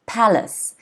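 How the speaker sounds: palace with PA stressed, lace light. Shown as a demonstration. Teacher models palace for students, first syllable stressed. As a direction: hit PA in palace. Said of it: "the stress is on the first syllable".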